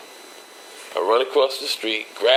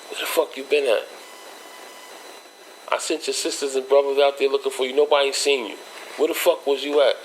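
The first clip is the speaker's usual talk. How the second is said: mother yelling; 5 semitones higher than usual. Retold or imitated. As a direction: play the mother scolding him. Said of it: "She yelling and screaming at me".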